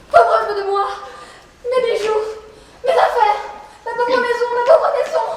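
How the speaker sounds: theatrical self-pitying wail; distraught lament. Acted. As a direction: bemoan each thing in turn. Woman laments threatened belongings.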